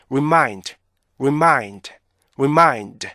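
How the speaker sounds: "remind" with short "re" and long falling "mind"; brief first beat, full second in "remind"; measured model repeats of "remind" as rip-MIND; correct REMIND rhythm. Shown as a demonstration. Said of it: "이렇게 발음하셔야 돼요".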